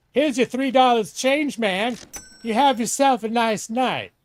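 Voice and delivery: sing-song cashier greeting; cheery cashier. Acted. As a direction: play the friendly store clerk.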